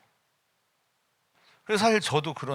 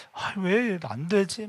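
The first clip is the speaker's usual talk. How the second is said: slow pained question; 3 semitones higher, much slower than usual. Retold or imitated. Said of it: "막 이런 아픔이 있어요".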